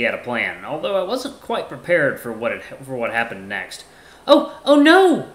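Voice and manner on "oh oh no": high, loud, drawn-out fake dismay; hammed-up alarm. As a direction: cry out in exaggerated panic. Axel fakes alarm as an excuse.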